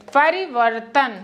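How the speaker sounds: परिवर्तन drawn out slowly syllable by syllable; slow careful pronunciation. Shown as a demonstration. Teacher models परिवर्तन slowly for class. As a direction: sound out परिवर्तन slowly for learners. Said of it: "ऐसे ही होगा परिवर्तन".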